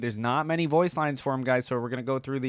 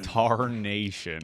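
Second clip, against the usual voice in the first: slow echo; much slower than usual. Retold or imitated. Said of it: "haven't heard the word tarnation".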